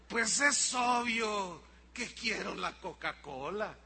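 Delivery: slow, drawn-out obviousness; child stating the obvious. Acted. Child answers dad's drink question, slow and obvious. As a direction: spell it out for a slow parent. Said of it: "Te va a mirar así como diciendo".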